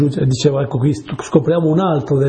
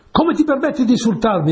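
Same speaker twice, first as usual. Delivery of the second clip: indignant exclamation; 8 semitones higher, faster than usual. A narrator's reading. Lion king to the donkey who backed away, indignant exclamation. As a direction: exclaim in offended, storybook outrage. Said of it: "esclamò il re degli animali".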